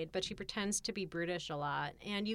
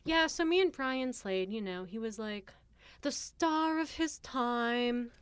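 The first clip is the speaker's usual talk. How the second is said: a hammed-up British accent, glamorous and a bit higher; put-on British accent; 4 semitones higher than usual. Reliving Brian Slade's glory days in a mock British accent. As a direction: lay on a posh British accent, playing the star's wife. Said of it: "segue into, like, a British accent".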